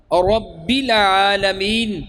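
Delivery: رب العالمین drawn out slowly, rabbi clear; slow Quranic رب العالمین with pure i; maruf recitation. Shown as a demonstration. Teacher repeats the maruf example slowly. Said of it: "یہ طریقہ الحمد للہ".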